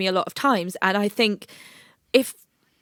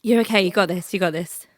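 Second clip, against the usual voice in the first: reassuring. Real, not acted. Comforting a crying friend.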